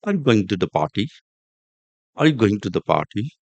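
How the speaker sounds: musical dip through "going to the", small lift on "party"; rising and falling. Shown as a demonstration. Teacher repeating the British example for learners, musical rise and fall. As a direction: lilt the question, without a sharp climb on "party". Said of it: "rising and falling".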